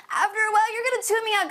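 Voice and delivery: high, lively break from the drone. Shown as a demonstration. Coach telling viewers they'd tune out, high and animated. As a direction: jump up high on "while".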